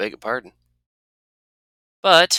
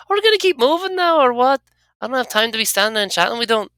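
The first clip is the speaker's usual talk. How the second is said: higher, brisk and pushy; impatient companion voice; 14 semitones higher, 6 dB louder than usual. Acted. Anna urging the player to keep moving, higher and impatient. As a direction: hurry them along, no more chatting.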